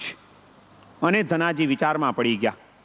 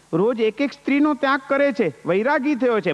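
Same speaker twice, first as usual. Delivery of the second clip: incredulous repeat; 4 semitones higher than usual. Acted. Husband hears his wife's news, incredulous repeat. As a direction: echo her words back in disbelief. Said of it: "Dhanaji કહે કે શું કીધું તે?".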